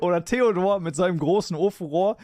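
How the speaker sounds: reciting a bawdy rhyme with relish; rhythmic verse, punchline at end; poem recital. Acted. Recites second German poem.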